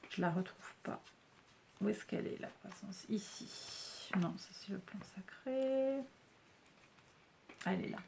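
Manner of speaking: very soft, partly whispered searching talk; hushed private murmur, barely projected; muttering to herself. Real, not acted. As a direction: think aloud under your breath while hunting for something. Hunting through cards, to herself.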